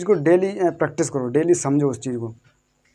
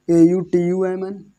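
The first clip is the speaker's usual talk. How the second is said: spelling out; 3 semitones higher, 3 dB louder, slower than usual. Shown as a demonstration. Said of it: "तो इसको आउटम पढ़ेंगे सिर्फ".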